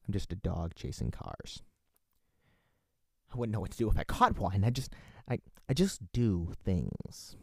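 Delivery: a hint of the Joker musing to himself. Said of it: "that sounds like my Joker voice".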